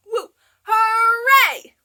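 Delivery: high, loud, laughing woo hooray; excited cheer. Acted. Teacher cheering with the kids in the song. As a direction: let the cheer burst out. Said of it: "do all three".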